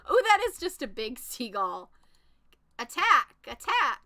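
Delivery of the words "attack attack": shouting attack. Real, not acted. Calling attacks in combat.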